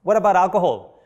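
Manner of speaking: lightly voiced wife nudging him; wife's pointed question. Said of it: "She did like this, you know, to the husband".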